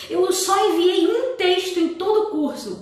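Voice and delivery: indignant student complaint. Retold or imitated. Student griping to the teacher about the correction, indignant. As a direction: imitate an aggrieved student, pitched well up. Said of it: "começou assim".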